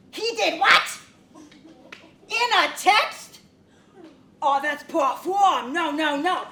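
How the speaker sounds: can't believe what she hears; shocked. Acted. Shocked by customer's breakup story.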